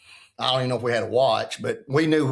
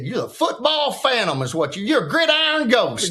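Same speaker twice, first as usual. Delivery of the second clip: laughing coach quote; 7 semitones higher than usual. Retold or imitated. Coach's one-liner, told with a laugh.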